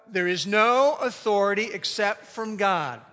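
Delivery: slow, measured unison recitation; recited aloud together. Shown as a demonstration. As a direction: invite everyone to join in the verse. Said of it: "now you need to join me here".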